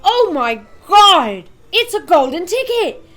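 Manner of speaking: excited scream. A narrator's reading. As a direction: scream it like you can't believe your eyes. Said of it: "screamed the shopkeeper".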